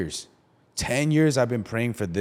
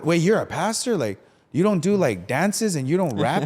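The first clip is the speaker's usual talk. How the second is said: surprised fan; 5 semitones higher than usual. Retold or imitated.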